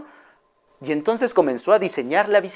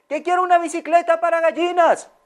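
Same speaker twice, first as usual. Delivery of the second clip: insistent repeat; 12 semitones higher than usual. Acted. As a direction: make sure he hears you. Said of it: "¿Qué, qué?".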